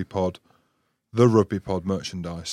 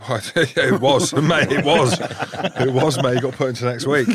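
laughing admission; 3 semitones higher, 5 dB louder, slower than usual. Real, not acted. Laughing admission of big tackle.

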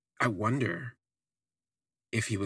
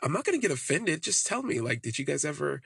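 Amir's quote; 5 semitones higher than usual. Retold or imitated. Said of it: "And he was like".

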